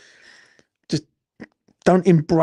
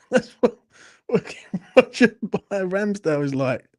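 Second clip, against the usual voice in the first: laughing; 4 semitones higher than usual. Real, not acted. Laughs at his own crude joke.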